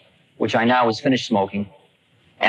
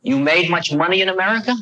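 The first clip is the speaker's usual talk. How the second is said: put-on old guru voice; 7 semitones higher than usual. Old man quoted asking.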